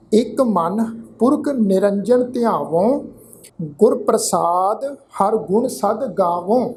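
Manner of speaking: slow, drawn-out sacred reading; scripture recitation. Shown as a demonstration. Teacher models the scripture reading for the congregation, slow recitation. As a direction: recite it slowly, holding the long vowels.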